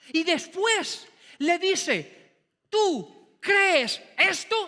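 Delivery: drawn-out "¿Tú crees esto?" rising on "crees"; slow challenge. Acted. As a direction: drag out crees esto like a dare. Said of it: "levantara la voz".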